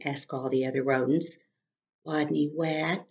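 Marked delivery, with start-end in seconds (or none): 2.1-3.1 whispering. Acted. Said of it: "whispered Wadney".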